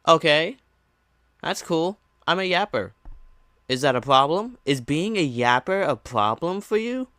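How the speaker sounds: sarcastic, rising irritation. Real, not acted. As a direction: bite back with sarcasm. Sarcastic reply to insult.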